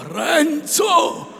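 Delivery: loud high cry of alarm; loud high urgent cry; sharp call. A narrator's reading. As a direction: stop him with his name. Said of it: "afferrandolo per un braccio".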